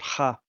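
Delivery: "Ha." with the H in the back of the throat; throaty H. Shown as a demonstration. Correcting a player's pronunciation, throaty H on "Ha.". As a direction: say "Ha." starting from far back in the throat. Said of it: "it's in the back of the throat".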